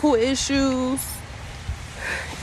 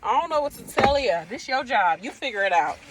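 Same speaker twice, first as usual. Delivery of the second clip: put-on higher, no-nonsense girl-talk to a coworker; sassy pep talk; 5 semitones higher than usual. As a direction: set her straight with attitude. Sassing the frazzled nurse.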